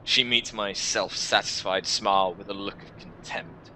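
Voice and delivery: measured first-person narration, set apart by pauses; story narration. Acted. Player character recounts drawing in humanity, story narration. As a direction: read it like a dark fantasy tale.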